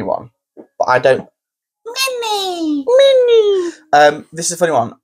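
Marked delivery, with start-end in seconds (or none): 1.9-3.7 much higher, sing-song call of a name; laughing call across the room. Real, not acted. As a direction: call her over, drawn out. Calling out a name.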